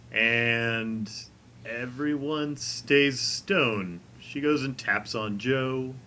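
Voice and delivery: slow, suspenseful scene-setting; game master narration. Acted. Game master describes Ravana entering the stone room, slow narration. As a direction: draw the words out with long pauses.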